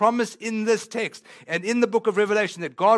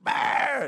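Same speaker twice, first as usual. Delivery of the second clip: a short hammed-up crying burst "Bah"; a quick mock sob; mock wail; 7 semitones higher than usual. Shown as a demonstration. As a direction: burst out like a weeping man. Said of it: "It's that".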